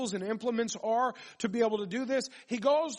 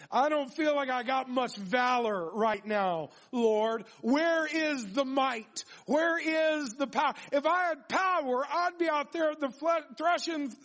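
high-pitched incredulous complaint; mock protest; 4 semitones higher than usual. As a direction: argue back at God, hammed-up and high. Acting out Gideon answering God's greeting.

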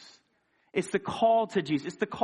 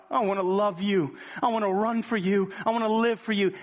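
voicing a prayer; 2 semitones higher than usual.

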